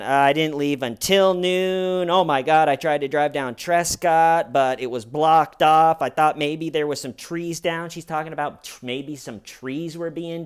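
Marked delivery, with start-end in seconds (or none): 0.0-7.9 loud rambling mimic of Wendy. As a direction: gush the story too fast to be believed. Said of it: "But she's going".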